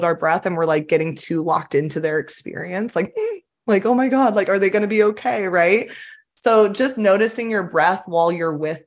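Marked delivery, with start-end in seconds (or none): 3.4-5.5 mock panic. Acting panicked helper.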